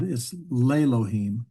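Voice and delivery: Lelohim said slowly, stress on the last syllable him; pronunciation shown. Shown as a demonstration. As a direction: spell out Lelohim slowly for students. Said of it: "it actually changes the way we pronounce the name".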